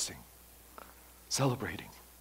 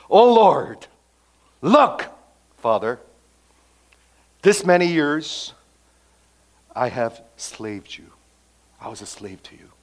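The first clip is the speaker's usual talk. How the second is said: resentful complaint; 7 dB louder than usual. Acted. Older brother complaining to his father, resentful. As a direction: whine out years of grievance. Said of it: "Look at the tone of, tone of voice".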